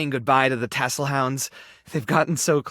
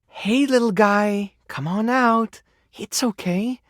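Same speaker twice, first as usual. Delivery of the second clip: put-on higher-pitched baby talk to an animal; gentle coaxing; 4 semitones higher, slower than usual. Telling the little guy to come out, coaxing. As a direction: coax a timid creature out, pitched up.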